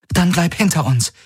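put-on worried young woman asking; Kirai, concerned. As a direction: check on the wounded man. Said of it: "sagte sie".

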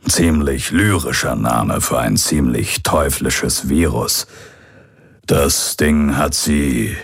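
slow, lightly voiced old pirate; grave account with deliberate pauses, a hint of old pirate. Old pirate describes the virus. (langsam und ernst, leicht angedeuteter alter Pirat)

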